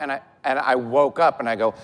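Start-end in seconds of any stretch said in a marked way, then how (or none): none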